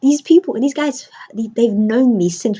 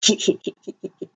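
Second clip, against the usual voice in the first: dad's quiet snicker to himself, imitated; little imitated voiceless chuckle; imitated private chuckle; 4 dB quieter than usual. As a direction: mimic someone giggling away to himself. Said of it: "just laughing to himself".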